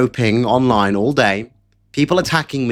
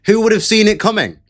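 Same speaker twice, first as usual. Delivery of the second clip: higher, mock-innocent who-would-have-guessed; sarcastic; 7 semitones higher, faster than usual. Real, not acted. Political streamer mocking rivals, sarcastic higher pitch. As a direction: ask it with heavy sarcasm.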